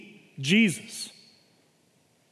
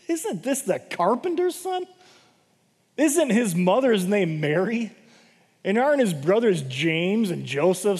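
mock him as just the carpenter's son; scoffing disbelief; 2 semitones higher than usual. Townspeople doubting Jesus.

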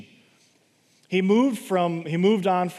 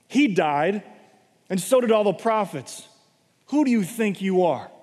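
indignant accusers; 3 semitones higher than usual. Acted. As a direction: confront him as an upstart. Jewish leaders challenging Jesus.

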